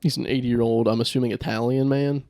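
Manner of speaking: put-on light joking Jewish accent; a hint of a Jewish accent. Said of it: "you were giving him a Jewish accent".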